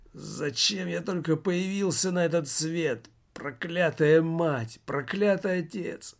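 надрывный хрип, выше; прохрипеть проклятия в отчаянии; хрип отчаяния. A narrator's reading. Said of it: "хрипел Жак всё громче". (надрывный хрип, голос рвётся вверх)

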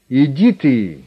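high, loud outraged yelp; outraged squeal at a brazen visitor; shrieking. A narrator's reading. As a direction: squeal at the nerve of it. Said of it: "даже взвизгнул от такой наглости".

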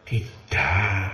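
a calm, low, quiet "no"; soft firm refusal. Retold or imitated. Kiai Ma'ruf refusing a pushy petitioner, calm low no. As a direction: refuse gently but without budging.

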